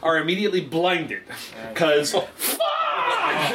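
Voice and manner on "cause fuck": man doing a woman's voice. Acted. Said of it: "Free lady voice for a week".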